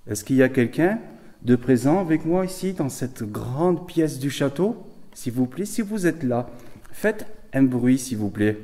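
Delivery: loud, slow, high call to spirits. Real, not acted. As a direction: call out to the presence. Calling out to spirits.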